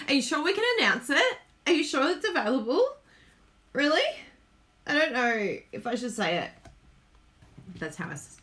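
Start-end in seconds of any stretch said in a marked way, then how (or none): 0.1-6.5 higher, quick anxious questioning; mock paranoid. Crafter voicing her worries about announcing news, mock paranoid. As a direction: imitate your own paranoid worrying. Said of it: "I was all paranoid".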